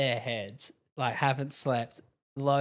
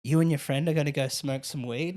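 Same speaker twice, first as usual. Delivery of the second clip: mild disbelief, rising at the end; incredulous repeat. Retold or imitated. Stranger to cheeky kids, lightly mock incredulous. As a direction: echo it back like you can't believe it.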